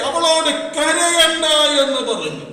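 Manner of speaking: slow, loud stress on അവളോട്; emphasised quote. Shown as a demonstration. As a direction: lean hard on അവളോട് and slow down. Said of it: "യേശു പറയുന്ന വാക്ക് ശ്രദ്ധിച്ചേ". (അവളോട് എന്ന വാക്കിന് ഊന്നൽ നൽകി പതുക്കെ ഉറക്കെ)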